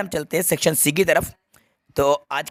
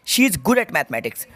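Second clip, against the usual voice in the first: slow reading with answer; much slower than usual. Shown as a demonstration. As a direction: answer read out slowly, stressing at. (at भरकर धीरे पढ़ना)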